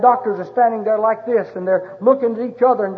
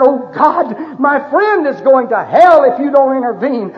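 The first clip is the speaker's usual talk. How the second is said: earnest plea; 3 semitones higher, 5 dB louder than usual. Pretend. Imagined desperate prayer.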